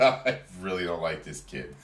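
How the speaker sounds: a touch of scorn in the voice; disdainful repeat. Retold or imitated. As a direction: say it again with real dislike. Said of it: "I said".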